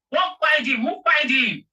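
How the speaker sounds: rising fury at who paid; indignant shout. Real, not acted. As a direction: demand an answer angrily. Angry demand in live debate.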